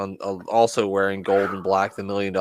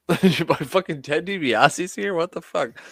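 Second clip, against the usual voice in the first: mock moviegoer shock; 7 semitones higher, slower than usual. Moviegoer hearing DiBiase's laugh.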